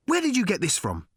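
high-pitched, agitated mock yell; yelled demand. A narrator's reading. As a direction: yell it without full volume, pitched high. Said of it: "he yelled at the policeman's shape".

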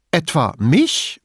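slow, high question, putting on courage; gespielt unerschrocken. A narrator's reading. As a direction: act undaunted with fear underneath. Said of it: "die Unerschrockene zu spielen". (gespielt mutig, mit etwas Angst)

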